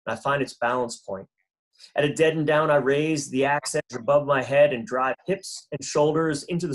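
even, deliberate poetry recital; poem reading. Acted. Trail builder reads a poem about an old tool, deliberate recital. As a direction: give each image room, dropping gently at the close.

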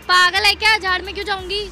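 loud, indignant snap; offended outburst. Real, not acted. Girl hits back at the rude stranger, indignant. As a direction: fire back, insulted.

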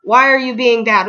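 put-on a touch of a stern teacher scolding kids; mock angry teacher. Shown as a demonstration. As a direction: tell off the class like a cross but fond teacher. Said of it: "if I need to get angry".

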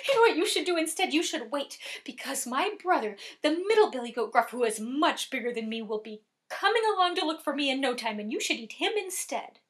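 quick, lightly voiced small goat; wheedling little goat. Littlest goat talking troll into eating his brother, quick and wheedling. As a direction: bargain fast like a younger brother.

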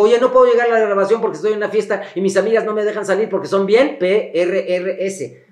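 spelling out the consonants. Shown as a demonstration. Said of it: "¿Qué dice?".

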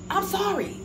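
high, pleading mock apology; imitating her apology. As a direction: plead like a frightened small woman. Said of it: "That's what she says".

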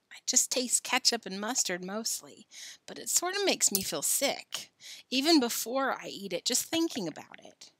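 mildly tired explanation; a touch of weariness; weary. Acted. Billy explaining the worm makes him sick, mildly weary. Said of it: "said Billy wearily".

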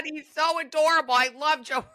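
high, loud gushing over a crush; giddy fan squeal. Real, not acted. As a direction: swoon over him out loud.

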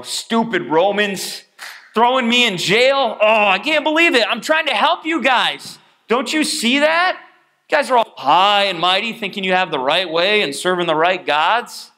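whining prisoner, hammed up; mock whiny complaint. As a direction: play a self-pitying Paul. Paul voiced complaining mockingly.

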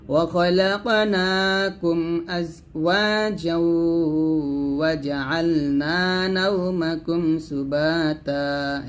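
slow melodic tajweed chant; Quran recitation. Shown as a demonstration. Teacher recites the verses for students, slow chant. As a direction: draw each verse out in a slow melodic line.

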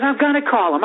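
high, insistent mock threat; retold threat. Woman threatening two fans with security, mock indignant. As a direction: imitate an indignant complainer's warning.

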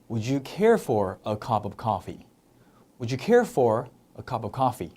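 very slow, stress on care; slow model question. Shown as a demonstration. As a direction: lay it out slowly. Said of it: "커피 한잔 하실래요". (아주 천천히)

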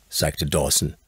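ordinary delivery, nothing marked

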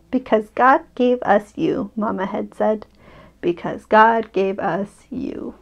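gentle bedtime story reading; story narration. A narrator's reading. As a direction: read it like a picture book to a child. Reads picture book aloud.

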